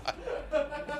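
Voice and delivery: high wheezing laugh; real wheezing laughter; breathless silent laugh. Real, not acted. Helpless laughter.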